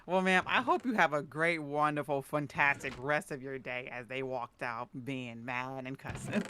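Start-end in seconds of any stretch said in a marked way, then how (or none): 0.0-3.9 overly polite retail voice; sugary polite send-off to an angry customer; customer service voice. Retold or imitated. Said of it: "in my most polite customer service voice".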